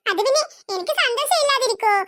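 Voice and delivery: laughing through the answer; aunt laughing off the children's question. Acted. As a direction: chuckle while explaining away. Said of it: "ആന്റിക്കെന്താ ഇത്ര വലിയ സന്തോഷം?".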